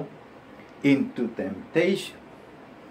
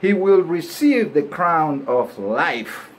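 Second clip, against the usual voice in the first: Spanish accent; 4 semitones higher, 4 dB louder, slower than usual. Shown as a demonstration. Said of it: "this is with an accent, a bilingual accent".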